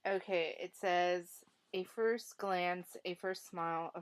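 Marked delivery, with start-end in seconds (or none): 1.7-4.0 reading poetry aloud. Shown as a demonstration. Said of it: "I think I could read some of it".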